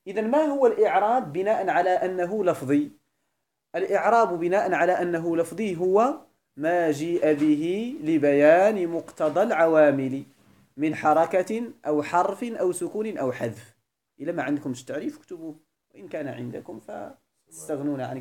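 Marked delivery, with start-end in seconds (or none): 3.8-13.7 deliberate, spaced-out reading of a definition; measured dictation. Real, not acted. Teacher dictates the definition to students, measured dictation. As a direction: draw out key words so students can write.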